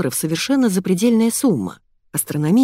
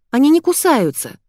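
put-on excited girl; 10 semitones higher, 4 dB louder than usual. Masha comforts lost girl.

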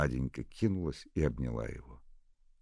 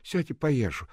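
higher voice, urging to eat; coaxing nurse; 13 semitones higher, 6 dB louder, slower than usual. A narrator's reading. Nurse telling Nadenka to eat, coaxing. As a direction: tell her to sit and eat.

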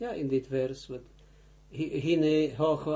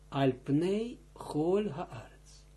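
slow and careful; slower than usual. Shown as a demonstration. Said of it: "het voorafgaande woord eindigt op een klinker".

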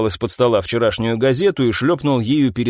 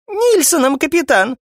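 much higher female voice; high prim correction; 14 semitones higher than usual. Acted. Gloria correcting the captain's mistake, high and prim. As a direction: correct him primly. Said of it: "исправила его Глория".

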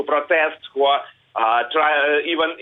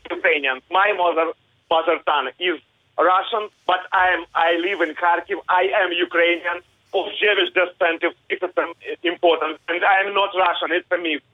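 raised, insistent correction; passionate; 4 semitones higher than usual. Real, not acted. Kharkiv man correcting the interviewer, passionately insistent. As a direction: set the record straight, heated but controlled. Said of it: "I can hear the passion in your voice".

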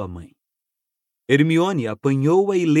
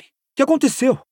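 calling out; 11 semitones higher, 3 dB louder than usual. Acted. Harry calls back, alarmed.

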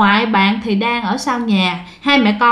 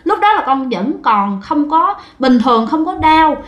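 put-on crying child; 3 semitones higher than usual. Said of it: "vừa nói vừa khóc".

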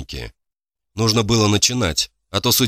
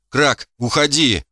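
slow raised call from the flames; fire demon; 5 semitones higher, slower than usual. A narrator's reading. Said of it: "знакомый голос демона из той огненной бури".

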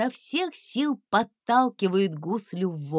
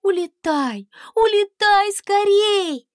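high, loud pleading urge; urgent plea; 11 semitones higher, 8 dB louder than usual. A narrator's reading. Princess begging the dragon to fly away fast. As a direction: push him to fly away.

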